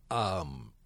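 burp slipping out mid-sentence; small burp while talking; burping after fizzy drink. Real, not acted. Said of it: "I'm burping".

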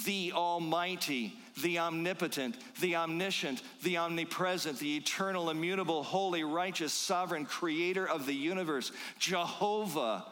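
a rising, slowed list of titles; building proclamation. Acted. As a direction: crescendo of praise, each title lifted.

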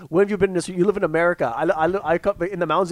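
imitating Khabib. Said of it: "He goes".

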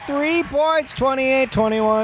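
excited call. Acted. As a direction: cheer the three like a hyped announcer.

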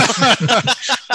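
high burst of amused laughter. Real, not acted. Host amused by guest googling it.

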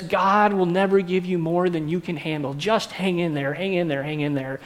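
mock platitude. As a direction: lightly parody well-meaning church folk, dropping away. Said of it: "they'll say things like this".

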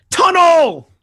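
high loud yell of Tunnel!; urgent shout. Acted. Nightwing yelling at Robin to duck, loud shout. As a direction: scream Tunnel! as a warning.

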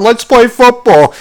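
hammed-up drunk guy; mock drunk beachgoer. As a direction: play the sunburnt drunk calling for a game.

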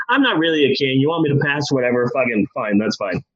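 a hint of a king who doesn't care; lightly voiced bored king. King shrugs off passing laws.

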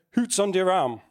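put-on a light Yorkshire Bradford accent, hoots for what's. Preacher quoting Wigglesworth at the door, light Bradford accent. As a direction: mimic a gruff old Bradford preacher in Bradford accent. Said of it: "in his British forward slash Bradford accent".

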